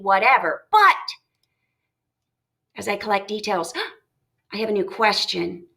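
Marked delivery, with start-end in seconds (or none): 2.8-5.7 hushed, lower musing broken by a gasp; acted sudden realization. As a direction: softly think aloud, then gasp at a new question. Acting out a reader's sudden wondering.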